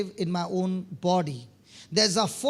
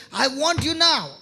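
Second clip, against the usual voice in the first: raised, louder angry phone demand; higher and louder, insistent; 4 semitones higher, 5 dB louder than usual. Retold or imitated. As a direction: quote an angry wife demanding him immediately. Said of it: "when she is angry with something".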